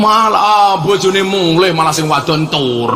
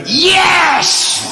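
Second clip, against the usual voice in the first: drawn-out yes; 13 semitones higher than usual. Acted. Punchline exclamation to crowd.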